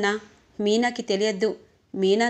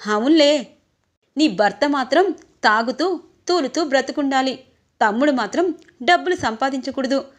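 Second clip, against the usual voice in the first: loud sneering sarcasm; sarcastic retort; 2 semitones higher, 5 dB louder than usual. Acted. Younger brother mocking his sister about her drunk husband, loud sarcasm. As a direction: throw her words back at her mockingly.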